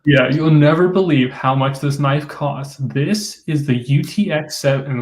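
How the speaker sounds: slow, salesy pitchman read; infomercial voice. Retold or imitated. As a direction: sell it like a late-night ad. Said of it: "sounds like an infomercial".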